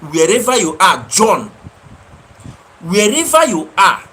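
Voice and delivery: loud, high-pitched preaching rant; fiery rant. Real, not acted. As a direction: call down curses on him from the pulpit. Preaching rant at viewer John.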